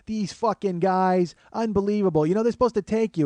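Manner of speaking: high-pitched irate griping; mock a furious New York woman; imitated yelling. Woman in the cab line complaining, mock yelling. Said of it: "the woman behind me starts yelling".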